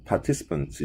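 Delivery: "participants" with the R silenced, British-style; dropped R. Shown as a demonstration. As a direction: say "participants" with no R sound after the first A. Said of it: "R 발음 죽여서".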